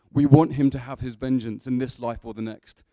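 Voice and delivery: very loud, heroic declamation; Russell Crowe. Acted. Preacher carrying Gladiator's speech to the congregation, in a booming heroic voice. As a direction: thunder it out like a vow of revenge. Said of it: "That's quite Russell Crowe".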